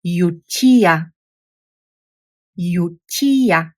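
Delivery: "Utia" said whole as yoo-tee-ah, falling at the end; Bulgarian pronunciation. Shown as a demonstration. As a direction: blend "Utia" into one word, stress on the first syllable. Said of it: "a word with three syllables".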